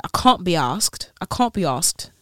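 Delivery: put-on light British accent, broad "can't"; half-remembered British accent; attempted British accent. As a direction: try on a British accent, a little loudly. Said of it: "forgot to do the accent".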